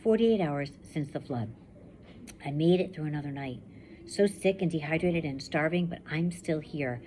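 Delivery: steady first-person reading to a class; story narration. A narrator's reading. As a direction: read it like a survivor telling her own story. Teacher reads novel aloud.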